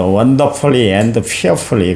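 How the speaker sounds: drawn out slowly, word by word; lingering reverent gloss; slow English phrase. Real, not acted. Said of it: "slow English gloss".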